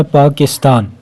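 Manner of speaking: पाकिस्तान in three beats, पा-किस-तान; split into syllables. Shown as a demonstration. Teacher showing three syllables, पाकिस्तान split as पा-किस-तान. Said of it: "इसमें भी तीन है".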